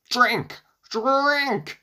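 high, loud screamed command, second one stretched out; screaming. A narrator's reading. Baba Yaga orders her cows at the river, screaming. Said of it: "she screamed at the top of her lungs".

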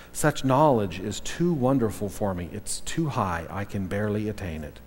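measured, reverent Psalm reading; gentle solemn reading of the Psalm; scripture reading. Acted. Reads Psalm 139 aloud.

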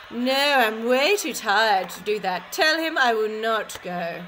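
loud, dismissive spoiled queen; haughty queen. Acted. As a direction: brush it off like a pampered royal. Queen refuses the king's call.

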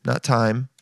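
ordinary delivery

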